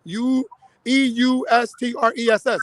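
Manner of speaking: spelling out E U S T R E S S letter by letter; letters of eustress said one by one; spelled out. Shown as a demonstration. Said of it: "They call it eustress".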